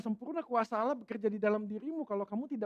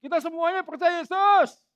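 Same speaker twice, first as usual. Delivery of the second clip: mock complacent Christian; 7 semitones higher, 11 dB louder than usual. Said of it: "beberapa orang mengatakan".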